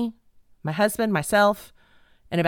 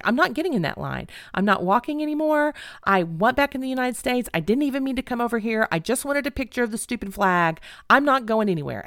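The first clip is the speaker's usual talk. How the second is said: higher-pitched, insistent protest; retold stubborn refusal; 5 semitones higher than usual. Wife tells husband she will not join the line, stubborn refusal. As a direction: dig in and refuse, retelling it.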